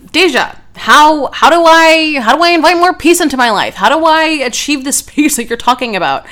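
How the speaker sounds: high, insistent mock questioning; pleading listener. Listener asking the host how to find peace, high-pitched mock plea. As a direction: stumble into an eager, exaggerated plea.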